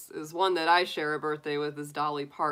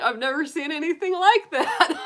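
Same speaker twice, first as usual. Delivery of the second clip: higher, louder, laughing through it; laughing mom; 10 semitones higher, 6 dB louder than usual. Retold or imitated. Mom at the movie's end, laughing while quoting. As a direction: imitate mom cracking up. Mom's reaction, laughing retold.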